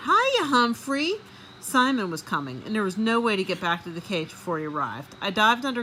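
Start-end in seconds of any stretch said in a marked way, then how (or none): 0.1-1.1 high, slow, drawn-out hiya; cheerful boy greeting. Acted. Simon bursting in, greeting Humphrey cheerfully. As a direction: call out happily to the hamster. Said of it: "a familiar".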